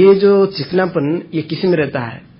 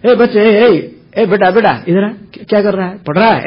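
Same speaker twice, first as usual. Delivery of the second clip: raised, higher-pitched acted call to a child; 4 semitones higher, 3 dB louder than usual. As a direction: call the kid over insistently. Father calling to his child.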